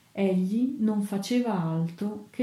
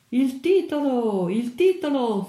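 thundering demand; 6 semitones higher, 4 dB louder than usual. A narrator's reading. A voice demands the story's title, thundering and high. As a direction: call it out like a heckler in a crowd. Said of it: "tuonò una voce".

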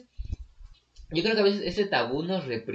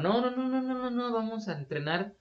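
mock American officials; 9 semitones higher than usual. Voicing US officials in retold history.

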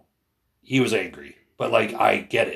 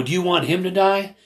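high, louder imitated demand; retold urgent challenge; 10 semitones higher, 5 dB louder than usual. Man challenging protester about teenager, imitated urgent demand. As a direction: confront him, quoting a heated plea. Retold confrontation over a kid.

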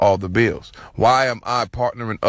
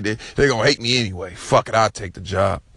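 Trump voice. Retold or imitated. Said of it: "Trump like".

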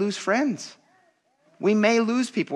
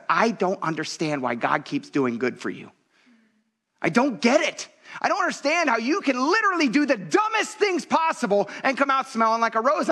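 retold crying dad; 7 semitones higher than usual. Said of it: "my dad was crying and he said".

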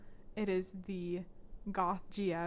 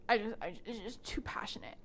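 hushed tortured-artist whisper; breathy mock whisper. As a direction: sigh it like a brooding pianist. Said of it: "he's like".

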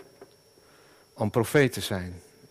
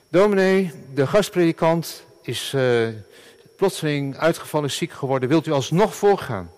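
urgent plea from the elder on the phone; urgent church elder; 4 semitones higher than usual. Retold or imitated. Church elder phoning the pastor early Sunday, urgent and higher.

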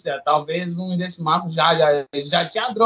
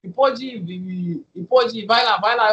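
amused cop; 3 semitones higher than usual. Retold or imitated. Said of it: "e começou a rir".

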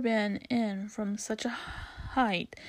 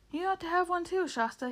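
snorting; 7 semitones higher than usual. A narrator's reading. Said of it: "he snorted".

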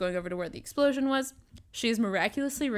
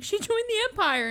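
squeaky high voice; 12 semitones higher than usual. Retold or imitated. Voicing Lop in recap.

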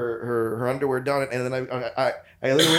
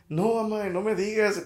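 high mock-distraught Spanish; Oscar-worthy fake mourning; hammed-up grief; 6 semitones higher than usual. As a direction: overact shocked grief on the phone. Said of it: "I put on an Oscar award winning act".

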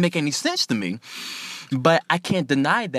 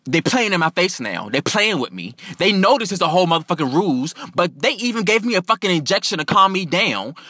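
higher, outraged complaining; real indignant; 5 semitones higher than usual. Retold or imitated. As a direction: complain like you are being played with. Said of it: "I'm real indignant because".

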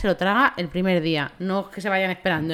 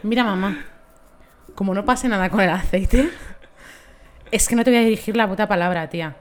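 raised, fed-up warning; exasperated warning; 5 dB louder than usual. Retold or imitated. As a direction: scold her mother loudly. Angry warning to mother.

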